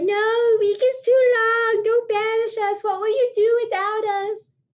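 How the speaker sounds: hammed-up teens pleading with mom. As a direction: beg dramatically not to be sent away.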